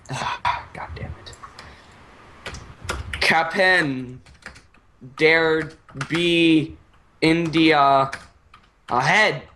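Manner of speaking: a hint of a pirate's parrot calling out. Parrot voiced in drawing story.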